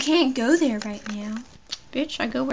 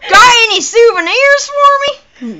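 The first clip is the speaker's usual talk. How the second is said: loud, high redneck voice; exaggerated country redneck, loud and high; redneck accent; 11 semitones higher, 15 dB louder than usual. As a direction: holler it like a hammed-up redneck.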